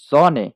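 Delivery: জনে said loud, with the s voiced like জ; German s as z. Shown as a demonstration. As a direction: stress the জ in জনে. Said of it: "এটার উচ্চারণটা জ হয়". (জ উচ্চারণে জনে)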